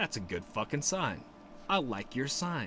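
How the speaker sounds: plain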